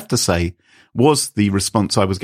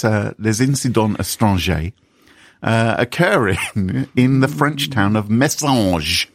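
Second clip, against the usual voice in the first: fake French accent. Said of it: "this fake French the whole way through".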